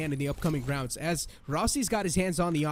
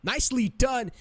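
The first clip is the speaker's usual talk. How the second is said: esports caster; 4 semitones higher than usual. Real, not acted. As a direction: celebrate the flawless round. Flawless round called live.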